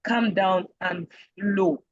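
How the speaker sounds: unhurried, evenly paced demonstration; relaxed, measured pace; calm, flowing slow. Shown as a demonstration. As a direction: take it slowly and let the words flow. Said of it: "when I say slow".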